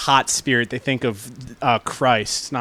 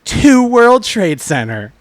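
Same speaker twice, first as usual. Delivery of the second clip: a hint of a cheery ad read; tourism ad voice; 2 semitones higher than usual. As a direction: pitch it like a mild travel ad. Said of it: "imagine booking a tourism commercial".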